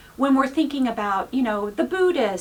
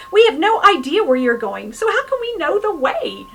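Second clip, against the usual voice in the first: high, loud, alarmed protest; Thomas protesting; 6 semitones higher, 7 dB louder than usual. Retold or imitated. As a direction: blurt it out in alarm, pitched up.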